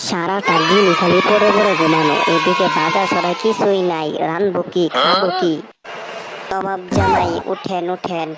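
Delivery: loud scolding nag at a lazy husband; wife scolding a sleeping husband, loud and angry. Acted. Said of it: "মানিকের স্ত্রী রাগ করে".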